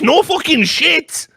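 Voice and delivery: high, slow, laughing exclamation; high laughing sarcastic shout; sarcastic outburst. Real, not acted. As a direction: scoff loudly at the obvious. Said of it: "sarcastic reaction to article".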